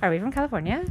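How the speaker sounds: mock Californian uptalk on "California"; questioning lilt ending on "California". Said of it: "ask questions at the end of every sentence".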